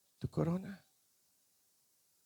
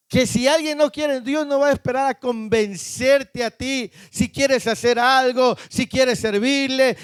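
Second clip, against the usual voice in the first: urgent preaching; 3 semitones higher than usual. Real, not acted. Preacher warning a congregation that God seeks someone willing, urgent preaching. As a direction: preach in a quick, unbroken run.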